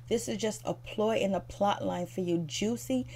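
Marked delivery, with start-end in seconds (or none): 2.5-3.1 incredulous. Real, not acted.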